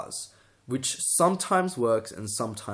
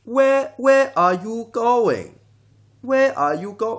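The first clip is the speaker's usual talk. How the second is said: very high, loud, slow Asian accent; swooping pitch in an Asian accent parody; exaggerated high Asian accent question; mock Asian accent with pitch; 12 semitones higher, 10 dB louder, slower than usual. Shown as a demonstration. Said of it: "incorporate that pitch thing into their speech".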